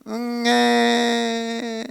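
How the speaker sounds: soft, low mock cry; low baby cry. Preacher showing a baby asking to be held, softly crying. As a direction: murmur "응애" gently like a baby wanting to be held. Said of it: "이 낮은 목소리로".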